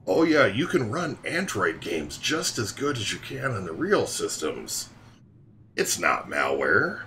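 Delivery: mock-innocent questioning lilt; exaggerated scoffing denial; sarcastic reassurance. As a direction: assure them with obvious sarcasm. Sarcastic reassurance about malware.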